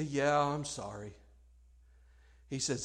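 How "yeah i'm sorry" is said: low, soft, acted contrition; hushed apology. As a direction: apologize meekly, voice dropped. Acted apology after lashing out.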